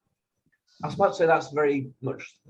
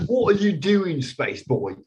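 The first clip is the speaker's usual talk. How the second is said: hammed-up Donna accent, then it drops away; mocking Donna's accent at the Doctor; terrible Donna accent; 5 semitones higher, slower than usual. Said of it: "That was a terrible accent".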